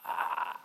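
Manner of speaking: hushed, voiceless stammering; speechless stammer. Acted. Imagining himself in the woman's position, speechless stammer. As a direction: stall on a faint, stuck syllable. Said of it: "I think that's my response".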